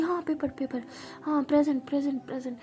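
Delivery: groggy student calling present; half-asleep roll call. Acted. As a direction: answer the roll while still asleep. (नींद में हाज़िरी बोलना)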